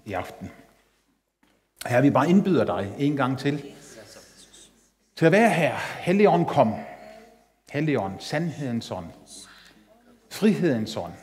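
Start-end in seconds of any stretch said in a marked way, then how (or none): 1.9-11.1 hushed worship prayer under music. Acted. Opening prayer to the Holy Spirit.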